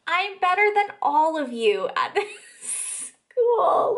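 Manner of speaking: high, laughing mock quote; mocking disbelief. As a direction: quote it through incredulous laughter, pitch climbing. Repeats boast, laughing in disbelief.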